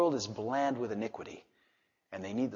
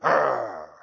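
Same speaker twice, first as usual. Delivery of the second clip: mock growl; 8 dB louder than usual. Shown as a demonstration. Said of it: "anger in my tone".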